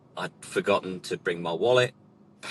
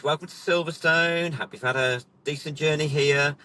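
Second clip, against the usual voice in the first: raised-pitch welcome to customers; lightly acted host's welcome; briefing instructor; 5 semitones higher than usual. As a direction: imitate an instructor starting his briefing. Retold briefing, instructor greets customers.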